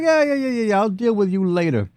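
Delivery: very high goblin voice brushing someone off; high, impatient character voice; dismissive goblin brute. Acted. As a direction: wave him away in a high brute voice. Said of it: "He's like".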